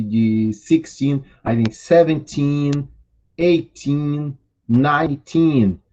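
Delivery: put-on "sixteen", "seventeen", "nineteen" slowed with the teen held long; slow stretched teen. Shown as a demonstration. Teacher drilling the class: hold the teen long. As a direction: draw out every teen ending. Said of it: "Alonga bem esse in".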